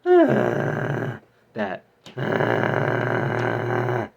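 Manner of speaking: loud rasping back-of-throat growl; throat growl noise. Shown as a demonstration. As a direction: push the sound from the back of the throat. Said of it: "So that would sound like".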